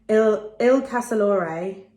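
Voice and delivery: "Il Casalore" slowly, with English sounds; Italian name "Il Casalore" said the English way; very English pronunciation. Real, not acted. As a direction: read "Il Casalore" haltingly in an English accent. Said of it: "most English pronunciation of that ever".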